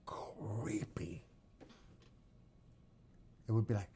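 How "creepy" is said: soft, breath-only word; creepy whisper. Shown as a demonstration. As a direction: draw it out in an eerie whisper.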